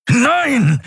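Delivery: very high, strained cry of refusal; through gritted teeth. A narrator's reading. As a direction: force it out through clenched teeth. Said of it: "stieß Helios mit zusammengebissenen Zähnen aus".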